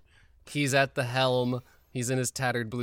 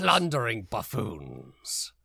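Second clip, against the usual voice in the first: pirate voice; 3 dB louder, slower than usual. Acted. Pirate captain corrects.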